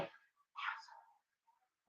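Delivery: slow low parrot squawk of Asshole; bird voice. Retold or imitated. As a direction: mimic the parrot croaking the word. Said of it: "he was like".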